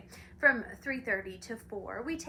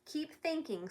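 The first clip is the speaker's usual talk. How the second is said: scolding; 5 semitones higher, 3 dB quieter than usual. Acted. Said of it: "scolded the watchdog".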